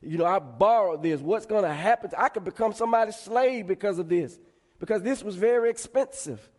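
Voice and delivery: mildly worried, pitch climbing as it goes; retold fretting. Borrower worries about becoming a slave, mild retold fretting. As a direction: fret aloud, lightly acted. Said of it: "he was so fretful about".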